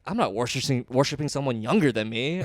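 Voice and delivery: loud disgusted outburst; outraged rant. Retold or imitated. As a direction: build to an indignant yell. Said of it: "He's like".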